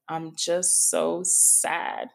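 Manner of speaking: slow, drawn-out imitation of a sad teen; retelling a crying daughter's words, slowly; retold tearful. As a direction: stretch it out in mild mock sorrow. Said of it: "she's, she's crying".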